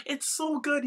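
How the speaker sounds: high, slow giggly echo; real laughter, drawn out; laughing. Real, not acted. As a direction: say it through giggles. Laughing, echoing.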